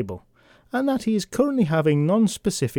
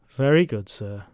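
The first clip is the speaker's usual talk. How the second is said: weary sigh, then a dry, deadpan butler reply; a lightly done resigned valet; a hint of a long-suffering butler; Jeeves impression; 5 semitones lower than usual. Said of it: "does his best Jeeves impression".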